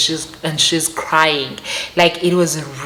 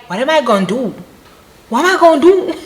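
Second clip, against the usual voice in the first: panicked, laughing; 10 semitones higher, 4 dB louder, faster than usual. Retold or imitated. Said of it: "I'm like".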